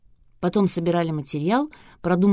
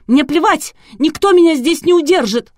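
much higher, much louder screaming defiance; hysterical shriek; 11 semitones higher, 10 dB louder than usual. A narrator's reading. Hysterical bride shouting back.

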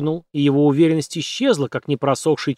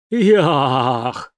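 howl. A narrator's reading. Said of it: "взвыл один из ягов".

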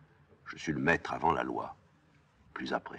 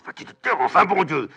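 loud, high, exasperated shout; furious silencing; 11 dB louder than usual. Acted. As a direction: explode to shut her up. Créon lui ferme la bouche de force. (cri de colère exaspérée)

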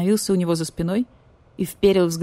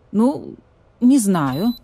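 cold and manly; 2 semitones higher, 4 dB louder, much slower than usual. Retold or imitated. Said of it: "мужественно и холодно".

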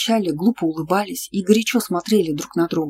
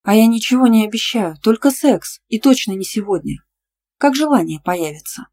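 higher, sweetly innocent teasing; 5 semitones higher, 5 dB louder than usual. A narrator's reading. Girl teases her boyfriend, innocently higher. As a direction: tease him with a smile. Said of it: "Я улыбнулась и невинно сказала".

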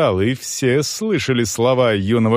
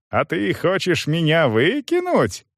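high-pitched incredulous challenge; indignant question; 7 semitones higher than usual. A narrator's reading. Young man challenges manager's threat, indignant. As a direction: fling the question back in outrage. Youth outraged at threat of eviction.

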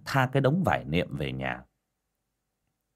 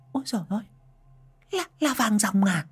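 high gasping amazement at gold; startled cry; 11 semitones higher than usual. A narrator's reading. Woman sees gold in the ghost girl's hand, high startled cry. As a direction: exclaim in shock and greed. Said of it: "giật mình kêu lên".

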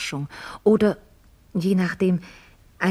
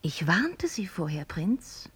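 slow, soft whisper; quiet whispered reminder; 8 dB quieter, slower than usual. Acted. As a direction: hush it apologetically. Gentle apology after blunt speech.

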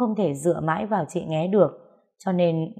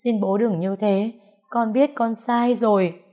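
sobbing plea; 4 semitones higher than usual. Acted. Daughter begging her father, sobbing. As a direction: break down begging forgiveness. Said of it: "Nó òa khóc to hơn".

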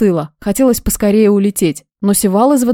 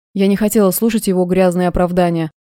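plain reading voice

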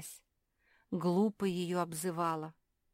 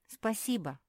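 usual speaking voice

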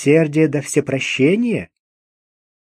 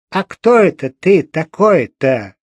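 ominous hag; 5 dB louder than usual. Acted. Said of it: "голосом, не предвещавшим ничего доброго".

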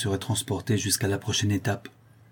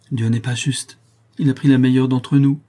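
sobbing; 4 semitones higher, 6 dB louder than usual. A narrator's reading. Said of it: "sanglotait-elle".

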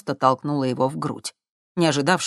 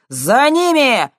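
very loud, higher, slow; angry shout; 10 semitones higher, 9 dB louder, much slower than usual. A narrator's reading. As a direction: yell after them. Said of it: "злобно крикнул уголовник". (злобно крикнуть)

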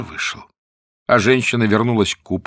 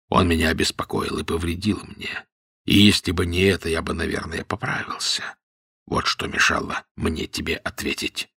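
weak voice; 5 semitones lower, 5 dB quieter than usual. A narrator's reading. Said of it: "царь ослабил голос".

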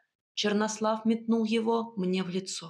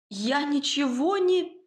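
higher, frightened squeak of a protest; a small scared squeak, cut off; 5 semitones higher, slower than usual. A narrator's reading. Captive heroine protests to the villain, higher frightened squeak. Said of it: "пискнула я".

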